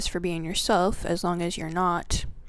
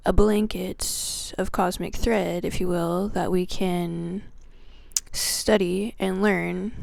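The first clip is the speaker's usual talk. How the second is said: heartfelt prayer. Acted. Host opens the video praying to Creator God, devoted prayer. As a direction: pray gratefully, unhurried.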